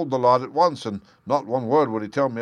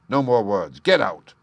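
stern dismissal; 5 dB louder than usual. Acted. Holmes dismisses Jem.

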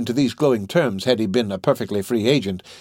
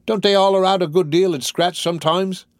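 high-pitched, objecting petty rogue; Noah Claypole; 9 semitones higher, 4 dB louder than usual. Acted. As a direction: question it doubtfully, pitched well up.

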